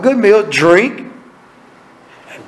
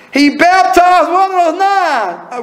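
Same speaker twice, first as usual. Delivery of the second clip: excited exclamation; 9 semitones higher, slower than usual. Real, not acted. Preacher exclaims in wonder.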